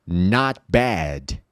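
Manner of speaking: not bad with an open ah in not; model phrase. Shown as a demonstration. Teacher modelling for repetition, slow and clear. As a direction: say not like nat, bad like bed. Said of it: "Speak aloud".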